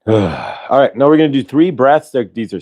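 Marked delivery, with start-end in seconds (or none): 0.2-0.6 soft sigh out. Shown as a demonstration. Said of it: "And breathe in".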